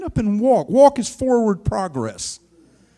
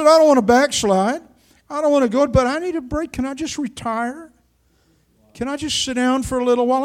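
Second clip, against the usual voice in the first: pleading prayer; 6 semitones higher than usual. Retold or imitated. Pleading with the Lord to retire.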